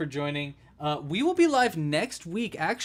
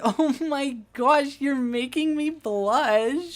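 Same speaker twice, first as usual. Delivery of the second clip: high, slow, giggly lovesick voice; mock shy denial; 9 semitones higher, 4 dB louder, much slower than usual. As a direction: play a smitten sweetheart. Playful hang-up-first bit.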